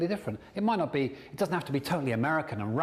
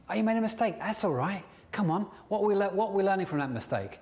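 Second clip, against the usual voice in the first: higher, upbeat reassurance; encouraging inner champion; 6 semitones higher, faster than usual. Acted. Coach models an inner voice forgiving a mistake, upbeat and encouraging. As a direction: lift them up after a slip. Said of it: "It should be doing that kind of thing".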